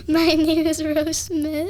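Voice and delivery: British accent. Shown as a demonstration. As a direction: put on a playful British accent, lifting at the end. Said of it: "in a British accent".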